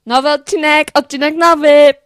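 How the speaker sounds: loud excited calling out; loud announcement. Shown as a demonstration. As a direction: hype it like a market crier. Hyped repeated announcement takes.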